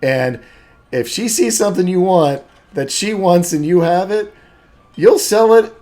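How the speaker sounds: put-on high, loud, emphatic young woman; lively daughter warning. Sky warning friends about trading with Marge, lively and emphatic. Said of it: "Sky's just like".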